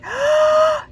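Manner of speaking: high loud gasp of wonder; duckling gasping at the bird's song; delighted gasp. Acted. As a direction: gasp in amazement. Duckling amazed.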